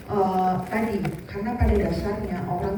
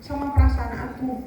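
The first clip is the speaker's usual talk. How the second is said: klien kesal; 3 semitones higher than usual. Shown as a demonstration. Memerankan klien yang marah.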